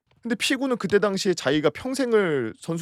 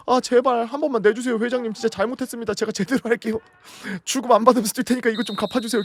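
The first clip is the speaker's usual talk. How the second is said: high-pitched imitation of frantic begging; mock desperate pleading; 7 semitones higher, 4 dB louder, faster than usual. Player begging the club president for penalty money, mock desperate pleading. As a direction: beg in a raised voice, rushing by the end.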